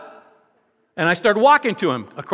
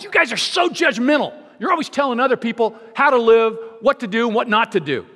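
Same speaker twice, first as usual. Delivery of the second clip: higher, accusing whine; mock indignant stranger; 5 semitones higher than usual. Stranger accusing Christians in the jacuzzi, mock indignant. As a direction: scold like an offended stranger.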